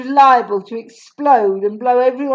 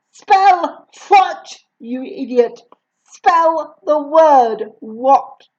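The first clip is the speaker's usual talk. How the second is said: impatient headmistress; 4 semitones higher, 4 dB louder, much slower than usual. Acted. Headmistress angrily demands.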